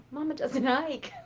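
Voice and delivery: said through a laugh; amused chuckling restatement. Acted. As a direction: laugh as you repeat it. Repeats with a laugh.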